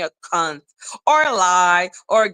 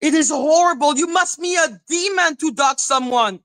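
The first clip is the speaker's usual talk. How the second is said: mocking impression. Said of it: "Lady Atisha being like".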